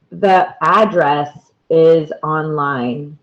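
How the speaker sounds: "address" stressed on the first syllable, AD-dress; noun stress on first syllable. Shown as a demonstration. Teacher showing learners the noun "address", first-syllable stress. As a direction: hit the AD in "address", lighter second syllable. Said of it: "it is pronounced different here".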